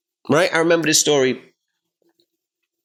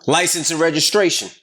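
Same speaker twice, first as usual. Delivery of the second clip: a bit louder, pushier cop demand; getting louder; 4 semitones higher than usual. Retold or imitated. Cop repeats his demand at the stop, louder. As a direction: raise it, press the demand. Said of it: "So he gets louder".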